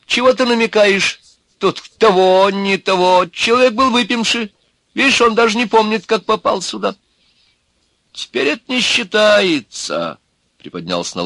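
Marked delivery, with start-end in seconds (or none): 0.1-7.0 very high, insistent arguing; womanish voice. A narrator's reading. Snub-nosed man defends the drunk accused, womanish and argumentative. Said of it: "некто курносый с женским голосом". 8.1-10.2 high, drawn-out contradiction; argumentative wizened man. Acted. Wizened man disputes the excuse, argumentative.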